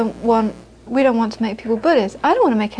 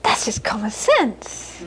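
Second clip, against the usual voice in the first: mother's matter-of-fact verdict; 4 dB quieter, slower than usual. Retold or imitated.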